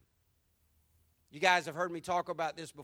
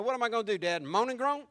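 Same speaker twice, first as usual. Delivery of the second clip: playful kid imitation, higher and louder on groan; kids quoting the movie; 3 semitones higher, 4 dB louder, faster than usual. Pastor telling the church how his kids parrot the line. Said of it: "my kids walk around saying".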